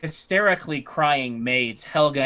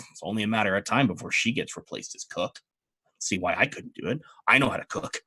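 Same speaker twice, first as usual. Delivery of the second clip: put-on sulky servant girl; 5 semitones lower, 5 dB quieter, faster than usual. Youngest maid grumbling bitterly.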